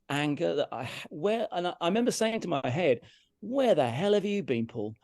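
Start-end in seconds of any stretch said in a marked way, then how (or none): 3.4-5.0 slow, higher, exasperated self-scolding; self-reproach. Retold or imitated. Musician berating himself on the drive home, exasperated. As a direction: scold yourself, leaning slowly on the words.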